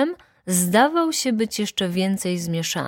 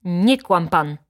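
louder accusing outburst; indignant cry; 5 dB louder, slower than usual. A narrator's reading. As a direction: cut in to accuse him of lying. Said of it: "zawołała baronowa". (oburzony okrzyk)

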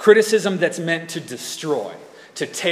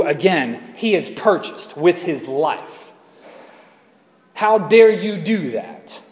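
indignant rebuke; 2 semitones higher, slower than usual. Acted. Jesus confronting someone insulting his church, indignant. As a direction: thunder it like an offended bridegroom.

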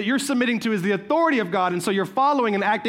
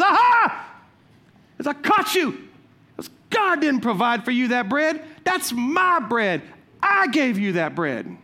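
spring out and gloat; gloating neighbor. Retold or imitated. Neighbor jumping out to catch her, gloating. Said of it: "he goes".

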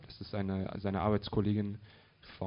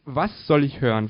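loud, higher-pitched demand; agitated question; 4 semitones higher, 7 dB louder than usual. Acted. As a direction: throw the question back loudly. Agitated question in shouted exchange.

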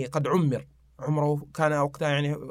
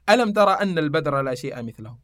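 verse recitation. Acted. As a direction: recite the answering verse in metre.

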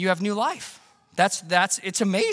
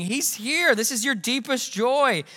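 joyful announcement; 5 semitones higher than usual. Retold or imitated. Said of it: "They're just singing".

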